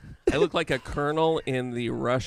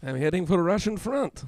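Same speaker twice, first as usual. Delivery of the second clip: put-on Russian accent; 3 semitones higher than usual. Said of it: "very Russian".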